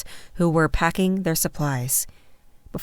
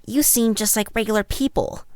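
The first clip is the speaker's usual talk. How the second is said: put-on higher-pitched child's voice; a little kid remarking with curiosity; observant child; 5 semitones higher than usual. A narrator's reading. Child sizes up a foreign guest, observant child. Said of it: "another noted".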